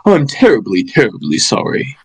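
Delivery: put-on posh British accent. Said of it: "I wanna try an accent for this man".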